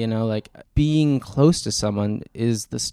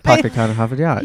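r-less Boston catchphrase; Boston accent; 3 dB louder than usual. Shown as a demonstration. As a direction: drop the r's like a Bostonian. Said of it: "used to have a Boston accent".

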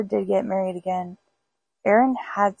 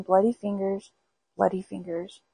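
ghostly moan; 4 dB quieter than usual. Acted. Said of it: "it was moaning".

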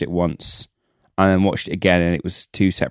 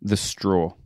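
hushed; 6 dB quieter than usual. Real, not acted. Awed recall of moving moment.

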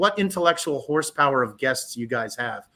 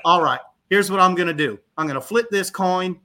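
imitated Tennessee director, raised voice; Ray Patterson, Southern accent; 3 semitones higher, 4 dB louder than usual. Director announcing a coin flip to students, Southern accent. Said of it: "Southern accent".

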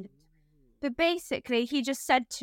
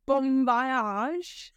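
laughing while quoting. Retold or imitated. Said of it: "Will wrote".

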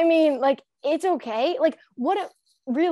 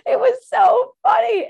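laughing; 13 semitones higher, 5 dB louder than usual. Real, not acted. Laughing at own story.

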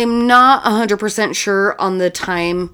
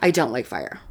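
low dopey voice; 8 semitones lower, 6 dB quieter than usual. Pretend. Silly voices about fire.

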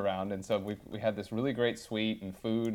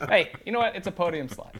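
mock upbeat; 10 semitones higher, 5 dB louder than usual. Real, not acted. Spinning a loss as positive.

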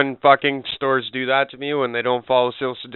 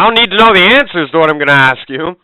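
mocking sarcasm; 4 semitones higher, 8 dB louder than usual. Mocking the clerk.

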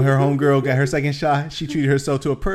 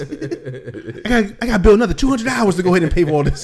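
complaining wife voice; 7 semitones higher than usual. Pretend.

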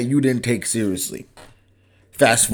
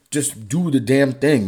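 ordinary delivery

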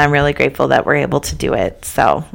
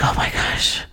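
mock exasperated husband; 7 dB quieter than usual.

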